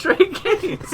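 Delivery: Trey Gaines said high, nasal French; mock French.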